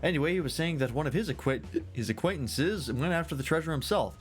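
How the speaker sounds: animated, lilting tavern tale-teller; tipsy storyteller. Acted. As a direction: ramble through the legend like a merry scholar. Voices tipsy storyteller resuming tale.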